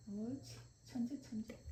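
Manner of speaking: soft, tender praise for a pet. Real, not acted. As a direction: coo praise under your breath. Praising dog after trick. (부드럽게 칭찬하는)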